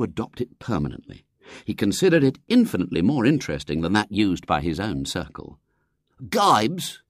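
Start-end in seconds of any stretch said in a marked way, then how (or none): 6.2-7.0 put-on high, scornful boy's query; infinite scorn. A narrator's reading. Check-cap boy rejecting William's idea, infinitely scornful. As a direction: throw the word back with contempt. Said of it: "said the boy in the check cap with infinite scorn".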